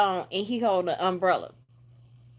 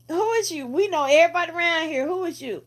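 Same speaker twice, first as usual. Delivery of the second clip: much higher, pushy challenge; demanding; 8 semitones higher, faster than usual. Retold or imitated. The guy in pink ordering the stranger to unmask, in a high demanding voice. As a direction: demand he take the mask off. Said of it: "He was like".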